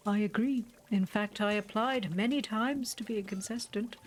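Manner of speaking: lightly voiced formal shopkeeper; a hint of an overly polite old shopkeeper; Borrow. Streamer reading the shopkeeper's lines to the player, lightly voiced.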